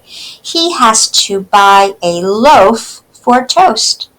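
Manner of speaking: put-on slow, clear poem reading for kids; slow read-aloud. Teacher reading a poem slowly to children.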